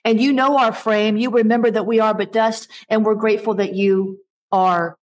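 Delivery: earnest pastor praying aloud; congregational prayer. Real, not acted. Pastor praying over the distressed congregation, earnest prayer. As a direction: pray it out sincerely for the people.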